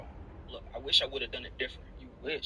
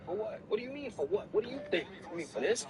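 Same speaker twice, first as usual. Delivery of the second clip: high indignant; 8 semitones higher, faster than usual. Acted. Arguing after the slap.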